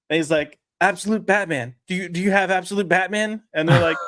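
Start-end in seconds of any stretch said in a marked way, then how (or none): 0.8-3.4 higher-pitched, light Spanish-accented imitation; frantic Spanish accent. Retelling a customer asking for a comic, lightly mocked frantic Spanish accent. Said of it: "guy comes in frantic".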